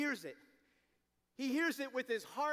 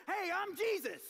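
silly Jesus; 5 semitones higher than usual. Pretend. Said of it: "No! No!".

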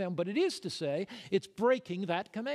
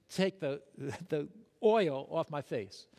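laughing; 2 semitones lower than usual. Real, not acted. Laughs at his own story.

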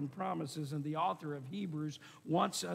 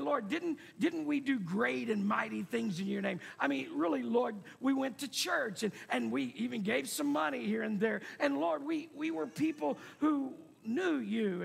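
higher-pitched protesting plea; crying out; 4 semitones higher than usual. Acted. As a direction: plead your case, mildly indignant. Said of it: "will cry out".

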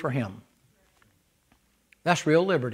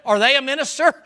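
mocking question; 9 semitones higher, 4 dB louder than usual. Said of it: "Paul said".

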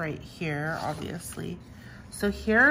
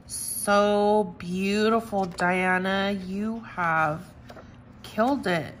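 gushing praise; slower than usual. Real, not acted. Praising the designer.

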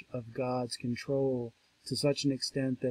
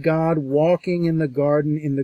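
louder, measured Bible reading; scripture reading; 3 semitones higher, 8 dB louder than usual. Acted. Lecturer reading Genesis to the class, solemn. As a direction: read the verse out with weight.

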